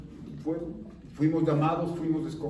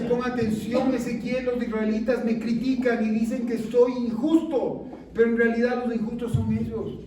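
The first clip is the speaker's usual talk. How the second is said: voice of God; 3 semitones higher, 3 dB louder than usual. Acted. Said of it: "¿Qué le dice?".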